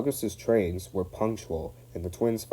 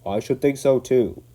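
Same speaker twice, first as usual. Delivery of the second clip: indignant; 5 semitones higher, 7 dB louder than usual. Acted. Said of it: "went on the Fat Controller indignantly".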